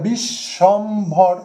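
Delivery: "বিশ্বম্ভর" slow, broken bish, shom, bhor; three stressed beats. Shown as a demonstration. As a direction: stress and separate each syllable of "বিশ্বম্ভর". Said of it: "তিনটে দল". ("বিশ্বম্ভর" তিন দলে জোর দিয়ে, ধীরে)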